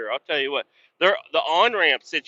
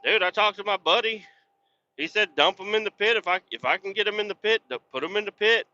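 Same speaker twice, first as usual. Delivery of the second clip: retold self-defense; 6 semitones higher, faster than usual. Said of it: "I'm like".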